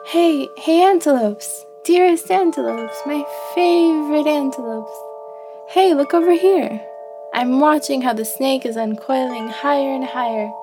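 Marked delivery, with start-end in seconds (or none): 0.1-6.8 high, eager call to the herd; excited calling out. Acted. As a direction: call them over with affectionate urgency. Antelope calls out to other antelopes.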